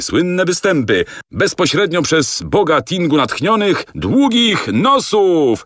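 high, showy fairground announcer reading the poster; circus barker announcement. Acted. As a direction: pitch it up and sell the show like a barker.

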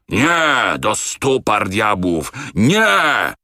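furious refusal. A narrator's reading. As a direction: refuse with a bellow. (kapitan wściekle odmawia)

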